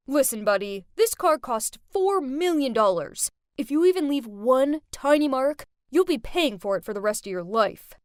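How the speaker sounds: put-on loud, rude rich boy yelling; rude shout. Rich boy shouting at the valet, rude and loud. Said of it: "he shouted at him and said".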